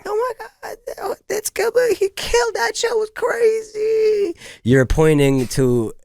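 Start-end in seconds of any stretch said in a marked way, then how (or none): 0.1-4.3 starstruck fan. Retold or imitated. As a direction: gush like a fan who can't believe it. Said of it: "you're like".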